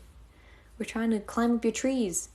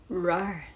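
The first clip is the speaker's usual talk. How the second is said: English-style roar; 3 semitones lower than usual. Pretend. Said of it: "the rar is my English voice".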